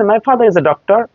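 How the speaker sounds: American accent, R closing "father" and "doctor"; American R-ful reading. Shown as a demonstration. English teacher reads example, American Rs sounded. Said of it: "আমেরিকানদের ক্ষেত্রে ঠিক আছে".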